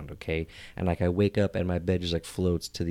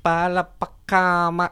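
high, halting attempt at gibberish; struggling servant; 10 semitones higher, 3 dB louder, slower than usual. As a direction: stumble slowly through a made-up language, pitched up. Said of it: "try in his best to respond in the language".

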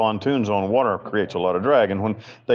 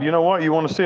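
mock drunk dare; 8 semitones higher, much faster than usual. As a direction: throw the dare back at the mocking friend.

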